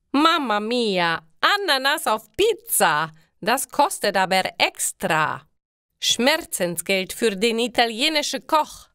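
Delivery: an Italian chef aghast at pineapple; horrified Italian cook. A narrator's reading. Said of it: "Der Koch ist entsetzt".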